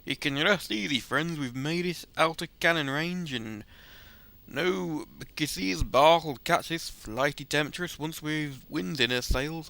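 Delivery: hammy old seadog brogue, lightly put on; gruff pirate-ish storyteller voice; rough sailor accent. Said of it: "that is an awful accent".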